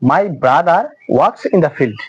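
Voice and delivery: "brother works" very slowly, the r of "brother" sounded; linking r demo. Shown as a demonstration. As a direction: spell out "my brother works in the field" slowly with the r pronounced. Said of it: "এই আর এর উচ্চারণটা হচ্ছে". (খুব ধীরে, "brother"-এর আর উচ্চারণ করে)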